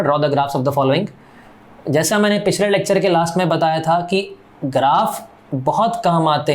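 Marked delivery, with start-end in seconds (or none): 0.0-1.1 slow, word by word, for students to copy; slow dictation. Shown as a demonstration. Teacher dictating the question to the class, slowly. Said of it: "आप ऊपर लिख लेना".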